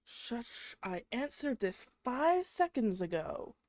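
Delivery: exasperated shushing. Retold or imitated. Girlfriend shushing her nagging boyfriend, exasperated. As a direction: draw out the retort, fed up and pointed. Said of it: "and I'm like".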